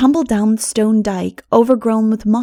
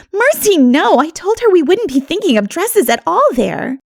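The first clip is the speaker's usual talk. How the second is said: shocked; 9 semitones higher, 4 dB louder than usual. Acted. Diana's shocked reply.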